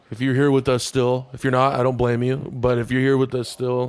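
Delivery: heavy breathing. Real, not acted. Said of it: "why are you breathing so heavy right now".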